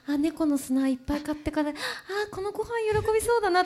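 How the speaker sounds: inner cat-owner voice. Retold or imitated. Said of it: "とか".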